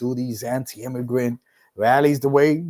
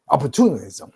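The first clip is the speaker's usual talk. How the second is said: ordinary talk, nothing marked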